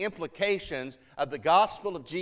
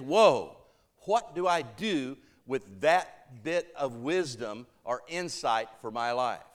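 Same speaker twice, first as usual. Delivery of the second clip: wisdom voice; 3 semitones lower than usual. Acted. Listener pondering what to do with wisdom, slow and musing. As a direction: stop short, then muse slowly, letting it sink. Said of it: "the wisdom voice is".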